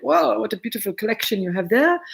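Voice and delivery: hammed-up French accent; bad French accent. Wine host imitating visiting French plant collectors, bad French accent. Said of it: "that was my bad French".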